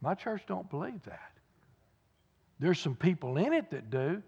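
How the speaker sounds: hushed imitation of a tearful man; retold crying. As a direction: quote his sorrow softly, with restraint. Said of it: "he broke down and started crying".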